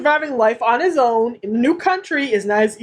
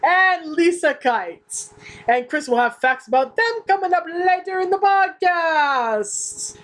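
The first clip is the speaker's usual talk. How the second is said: fake Italian accent; 5 semitones higher than usual. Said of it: "our big fake Italian accents".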